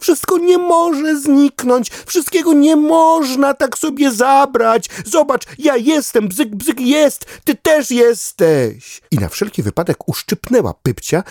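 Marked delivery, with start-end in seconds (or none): 0.0-9.0 very high, louder frantic duck; a panicked duck counting who is still here; agitated duck. Acted. Duck running in circles, frantic and very high to dog.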